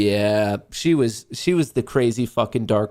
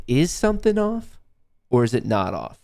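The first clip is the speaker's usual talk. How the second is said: questioning. Acted. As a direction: wonder aloud, rising sharply on the first half. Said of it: "like, question".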